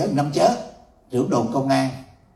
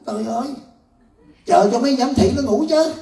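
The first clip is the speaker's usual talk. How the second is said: laughing reply; 7 semitones higher than usual. Retold or imitated. Spirit answers, laughing.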